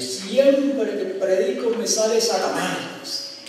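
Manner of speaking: slow, drawn-out mock cry; imitated possessed preacher. Preacher raving to his congregation, imitated drawn-out cry. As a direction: stretch the words, imitating a ranting preacher. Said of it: "Endemoniado gritando ahí".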